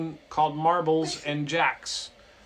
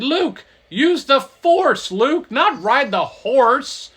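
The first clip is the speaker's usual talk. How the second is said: loud, slow, higher proclamation; booming message; 9 semitones higher, 10 dB louder, slower than usual. Acted. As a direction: read the fax like a grand command. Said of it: "and it said".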